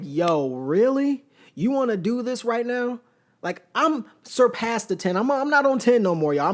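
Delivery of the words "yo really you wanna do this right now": incredulous challenge. Retold or imitated. Confronting the man in pool.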